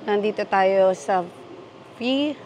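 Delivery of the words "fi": halting, restarting on the first syllable of Faibana; unsure sounding-out. Real, not acted. Vlogger unsure how to pronounce a cafe name, halting sounding-out. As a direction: feel your way through an unfamiliar name. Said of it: "Ewan ko kung paano i-pronounce yan".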